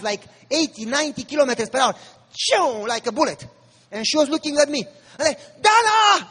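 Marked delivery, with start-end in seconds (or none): 2.3-2.9 drawn-out "choo" of a car zooming; imitated speeding-car whoosh. 5.6-6.3 loud, high retold warning scream; screamed name. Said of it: "I screamed".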